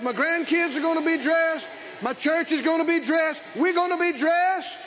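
insistent preacher building a chant; rhythmic, emphatic sermon delivery; preaching declaration. Acted. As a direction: declare it to the congregation, line upon line.

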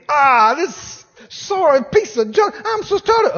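disgusted grumble, drawn out; mock grumbling. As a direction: whine about the old car. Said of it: "You can't say".

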